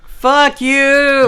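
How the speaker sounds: indignant yell; exasperated outburst. Real, not acted. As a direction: shout it at the game. Curses at the game.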